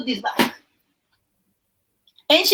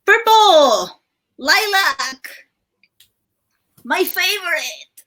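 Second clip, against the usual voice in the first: excited; 6 semitones higher, slower than usual. Real, not acted. Excited about purple shades.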